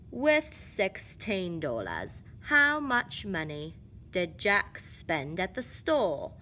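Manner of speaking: a light, slow mock British accent; slow, lightly put-on British storybook reading. Shown as a demonstration. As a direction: read the word problem slowly in a hint of British. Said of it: "I'm gonna do this in a British accent now".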